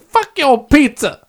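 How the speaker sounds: high put-on celebrity voice; Shaquille impression. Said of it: "That didn't sound like Shaquille O'Neal".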